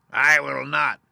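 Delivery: high, loud cackling witch voice; witch's retort. A narrator's reading. Witch retorting to Dorothy, high and loud. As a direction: refuse her flatly, a witch with her prize. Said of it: "retorted the witch".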